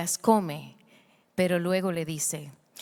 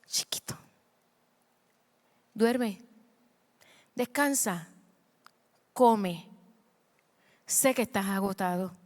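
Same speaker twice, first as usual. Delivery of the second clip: tender comforting. Retold or imitated. God voiced tenderly to Elijah.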